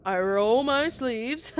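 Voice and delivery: crying. Acted. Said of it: "Why are you crying?".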